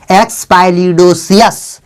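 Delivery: एक्स पाइलिडोसियस read slowly as one word; slow, careful model reading of एक्स पाइलिडोसियस; syllables joined slowly. Shown as a demonstration. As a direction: sound out every syllable of एक्स पाइलिडोसियस in order. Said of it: "और ये होगा एक साथ अस".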